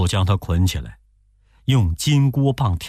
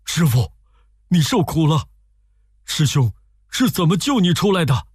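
higher, earnest concern; lightly voiced Sandy; 7 semitones higher than usual. A narrator's reading. Sandy kneels before his master and asks, lightly voiced with concern. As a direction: kneel and ask with care. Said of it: "忙跪在面前说".

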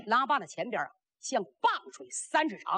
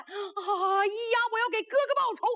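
grief-stricken vow of revenge; 9 semitones higher than usual. A narrator's reading. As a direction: cry out for vengeance, voice pitched high. Воин видит гибель брата.

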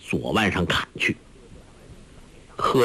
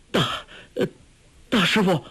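shaky, higher-pitched stammer; trembling voice; 8 semitones higher than usual. A narrator's reading. Guo Jing stunned by the order, trembling stammer. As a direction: stammer it out in shock. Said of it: "颤声说".

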